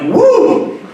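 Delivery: high mock victory whoop; a mock triumphant yell; triumphant woo. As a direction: cheer like a conquering hero. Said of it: "looks like this triumphant machismo".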